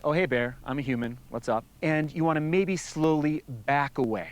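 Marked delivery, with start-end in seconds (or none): 0.0-1.6 casual, unthreatening greeting; calm. Shown as a demonstration. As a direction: talk calmly to a bear. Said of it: "maybe talk to the bear calmly".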